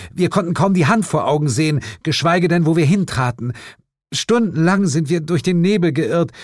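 high, insistent mother's voice; indignant mother Stella. A narrator's reading. Mother backs up husband's fog story to detectives, insistent. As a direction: insist on your incredible story.

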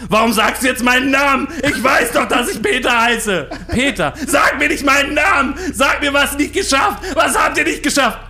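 screaming in a high-pitched fury; berserk rage. Acted. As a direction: rant at the staff, loud and high. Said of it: "Zadek bekam einen Tobsuchtsanfall".

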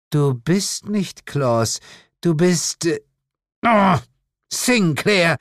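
high, slow, halting realisation; dawning recognition. Acted. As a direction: build from suspicion to an astonished cry. Demon mother recognizes the visitor.

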